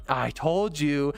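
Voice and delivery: slow, drawn-out smug gloat. Retold or imitated. Gloating to coworker who finally watched it, slow and smug. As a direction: savour being right.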